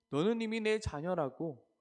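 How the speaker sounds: sermon voice of God declaring; fervent declaration. Acted. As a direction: proclaim it like God claiming his child. Voicing God's promise.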